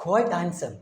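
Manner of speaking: slow quiet model phrase; slow soft demo. Shown as a demonstration. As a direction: draw it out gently for students. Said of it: "അതിന് പറയുന്നത് പറയാം".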